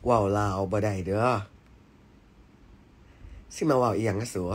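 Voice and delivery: put-on light Isan accent on request. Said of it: "พี่ฟ้าพูดอีสานหน่อย". (สำเนียงอีสานเบาๆ)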